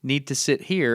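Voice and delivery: slow, over-clear question to a foreigner; slow, pointed. Retold or imitated. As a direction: spell it out slowly with pointing. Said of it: "I'm doing the pointy thing".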